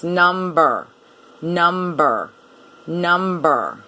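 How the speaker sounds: NUMBER in two beats, NUM-BER; weight both halves of NUMBER, num and ber; by syllables. Shown as a demonstration. Teacher showing two syllables, NUMBER as NUM-BER. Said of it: "but just two syllables".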